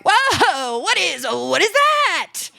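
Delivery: high, slow mock-innocent voice; fake innocent kid. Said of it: "I'm like".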